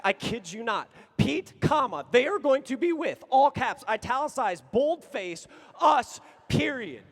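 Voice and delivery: loud, with "boldface" and "us" shouted; emphatic shout. Retold or imitated. The friend's final bold insistence, shouted. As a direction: bellow the final reply, stretching "us".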